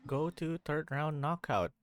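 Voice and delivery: talking between crunchy bites; crunching chips. Real, not acted. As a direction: mouth full of snack. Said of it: "Excuse my crunching".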